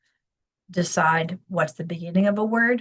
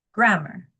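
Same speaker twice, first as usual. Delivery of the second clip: "Grammar." with GRAM stressed and the second syllable weak; teacher modelling the strong-weak stress of "Grammar."; stress on first syllable. Shown as a demonstration. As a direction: punch the start of "Grammar.". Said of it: "So the emphasis is happening".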